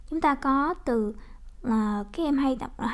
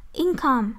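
"income" drawn out slowly, weight on IN; stress on first syllable. Shown as a demonstration. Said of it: "nhấn âm một".

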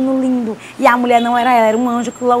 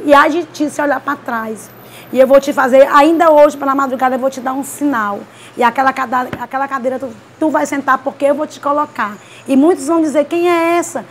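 prophet's proclamation. Retold or imitated. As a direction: retell the prophecy with mild preaching force. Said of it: "ele começou".

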